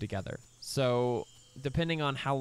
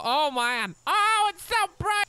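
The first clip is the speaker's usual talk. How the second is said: much higher and louder squeal at the glare; dazzled; 14 semitones higher, 7 dB louder than usual. Real, not acted. Gamer blinded by lens flares, high surprised squeal. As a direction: yelp as the light blinds you.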